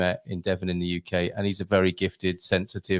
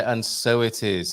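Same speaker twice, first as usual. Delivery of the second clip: with reverence; slower than usual. Shown as a demonstration. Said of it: "If you say it with a reverence".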